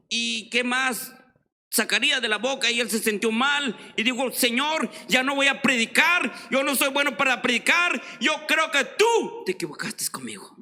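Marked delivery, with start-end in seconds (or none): 4.3-10.6 preacher crying out to God that he is not good enough; anguished prayer. Retold or imitated. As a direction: cry out to God in despair. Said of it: "se sentía mal".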